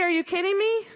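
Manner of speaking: mock the members' outrage; pissed-off members. Members reacting to the new CEO's salary, mock indignant outburst. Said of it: "our members get really pissed off".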